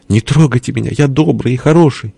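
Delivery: high plaintive character voice; pleading. A narrator's reading. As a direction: beg to be left alone, pitched high. Загнанный герой просит пощады. (жалобно, высоким голосом)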